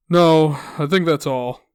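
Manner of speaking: mildly weary caller voice; worn out. Acted. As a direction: answer like a customer who has given up. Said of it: "sounding worn out".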